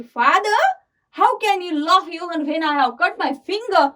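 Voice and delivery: mildly hammed-up indignation at a father; angry. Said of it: "starting at her father angrily". (पिता पर हल्का नाटकीय गुस्सा)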